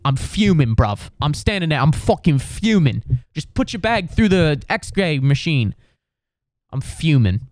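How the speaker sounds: lightly put-on British accent, exasperated; mock British indignation; borrowed British fuming. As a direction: grumble like the British bloke. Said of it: "there was a couple British dudes".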